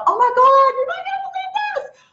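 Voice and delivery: squealed very high, bursting with news; gushing excitement. Pretend. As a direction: shriek it out, can't contain it. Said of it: "jump on here to you guys and go".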